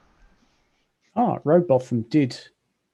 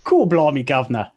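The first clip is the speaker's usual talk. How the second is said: mock Cockney; 4 dB louder than usual. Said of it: "a Cockney accent".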